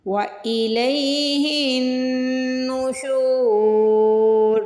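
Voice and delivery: नुशूर ending on a silent र, heavy and long शू; stop on nushur. Shown as a demonstration. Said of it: "हमें यहाँ पे वक्फ भी करना है".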